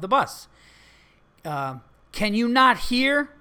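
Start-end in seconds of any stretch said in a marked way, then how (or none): 2.1-3.3 higher, slow, mildly louder mock yell; half-hearted imitation of a yelling passenger; mock scream. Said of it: "she screamed".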